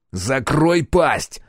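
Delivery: slow, hard shut-up; slow harsh order. Acted. Captain shuts up the pilot, slow hard order. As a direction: crush him with two slow words.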